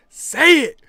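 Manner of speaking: full-force high shout, imitating friend; yelled demand. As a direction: scream it as an ultimatum.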